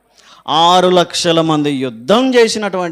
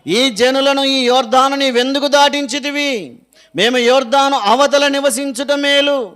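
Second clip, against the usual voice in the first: wailing prayer; 4 semitones higher than usual. Acted. Joshua crying out to God after the defeat, a higher lament. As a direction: cry out to the Lord in grief, moderately acted. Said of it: "అని చెప్పి గట్టిగా ఏడ్చి ప్రార్థన".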